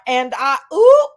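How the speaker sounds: mock a scandalized crowd, popping the last word way up; shocked chat reaction. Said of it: "all three hundred of us in the chat was like".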